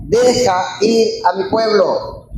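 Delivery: slow, measured divine command; slow, emphatic command. Acted. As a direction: draw each word out as a final command. Climax of repeated divine command.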